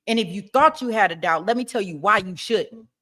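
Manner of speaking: firm, pushing the jury; aggressive closing argument. Pretend. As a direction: lay it on the jury hard. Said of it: "I wanted him to be aggressive with it".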